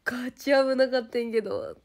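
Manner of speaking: fast, loud, high alarmed cries; panicked yelling. Retold or imitated. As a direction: rattle it off in near-fall panic. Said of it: "可愛くないね". (転びそうで焦って叫ぶ)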